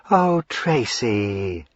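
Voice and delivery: slow, drawn-out cooing of his name. Acted. Lavinia greeting her brother, cooing slowly. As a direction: coo it sweetly, stretching the oh. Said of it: "she cooed".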